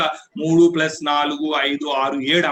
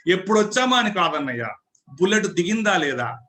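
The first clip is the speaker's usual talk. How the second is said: punchy movie-hero line, a touch higher; film dialogue; 3 semitones higher than usual. Acted. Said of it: "అది dialogue".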